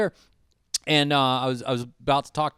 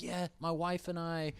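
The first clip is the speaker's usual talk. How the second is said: Hawaiian accent impression; 4 semitones higher, 8 dB quieter, slower than usual. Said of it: "He's like".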